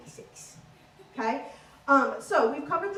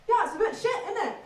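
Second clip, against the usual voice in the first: high, loud Yorkshire fella; blunt Yorkshire voice, higher and louder; Yorkshire accent; 8 semitones higher, 4 dB louder, faster than usual. Retold or imitated. Yorkshire man judging the ride, in a blunt Yorkshire accent. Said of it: "I met a fella from Yorkshire".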